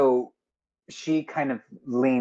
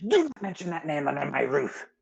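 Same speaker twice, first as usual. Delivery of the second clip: mildly indignant barmaid, a little higher; stern rebuke; 5 semitones higher than usual. Acted. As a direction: forbid it sternly, without shouting. Slaps the bar, forbids the name.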